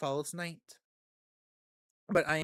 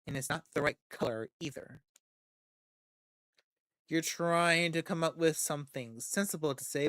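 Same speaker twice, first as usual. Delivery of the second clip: ordinary talk, nothing marked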